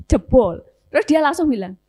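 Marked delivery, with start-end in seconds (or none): 0.1-0.6 mock exclaimed relief. Woman's exclamation, retold.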